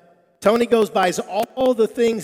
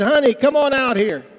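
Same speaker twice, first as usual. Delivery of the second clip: loud, raised call to someone in back; 6 semitones higher, 8 dB louder than usual. Retold or imitated. Harry calling his wife out from the kitchen, yelling. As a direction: yell back to your wife, high and loud. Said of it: "he yelled back at his wife".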